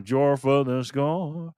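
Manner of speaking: slow, stretched hype announcer call. Acted. Host welcomes a member like a sports announcer, drawn out. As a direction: boom it out like a ring announcer.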